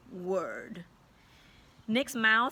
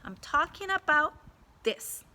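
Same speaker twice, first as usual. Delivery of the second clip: louder, firm schoolteacher voice; firm teacher; 6 semitones higher, 4 dB louder than usual. A narrator's reading. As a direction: hold up the pen and make your point. Teacher confronts student.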